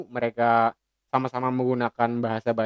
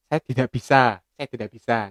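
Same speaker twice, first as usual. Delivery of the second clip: Javanese accent. Shown as a demonstration. Teacher contrasting Javanese dialect for classmates, gentle Javanese accent. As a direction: say "Saya tidak bisa" gently like a Javanese speaker. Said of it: "kalau orang Jawa".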